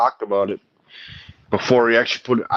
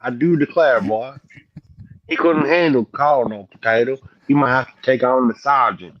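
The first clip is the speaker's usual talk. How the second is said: Colonel Potato. Acted. Streamer replays his Colonel Potato act for friends, bad Southern accent. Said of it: "that really bad Southern accent".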